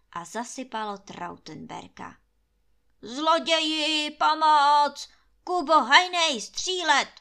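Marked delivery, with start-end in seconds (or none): 3.0-7.1 loud, higher, panicked cries; shouting for help. A narrator's reading. Landlord buried in hay, shouting for help, loud and higher. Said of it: "křičel".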